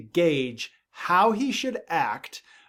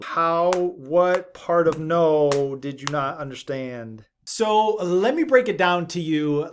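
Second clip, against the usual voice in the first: mock exasperated scolding; 4 dB louder than usual. Fed-up parent scolding unheeding child.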